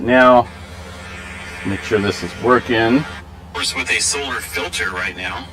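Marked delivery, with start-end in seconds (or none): 1.6-5.4 distant, robotic camera mic sound. Real, not acted. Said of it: "I sound kinda like a robot".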